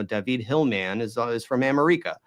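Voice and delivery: "America" stressed on REE, "David" on the last syllable; deliberate mispronunciation. Shown as a demonstration. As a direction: casually say "David" as da-VEED, "America" as am-er-EE-ka. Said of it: "not the way we speak English".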